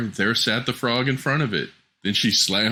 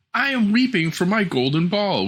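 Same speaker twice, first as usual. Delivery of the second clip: princess voice; 11 semitones higher than usual. Acted. Princess voiced in fairy tale.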